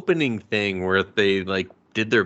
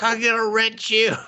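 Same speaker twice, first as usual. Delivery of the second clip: much higher eager promise; lovestruck boast; 12 semitones higher than usual. Retold or imitated. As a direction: promise it like a goofy suitor. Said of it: "And he's like".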